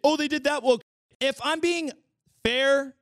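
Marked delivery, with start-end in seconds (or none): 0.0-0.8 higher, louder mocking friends. Friends fretting about woke content, a mock higher parody. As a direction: parody their outrage. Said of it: "They're all like".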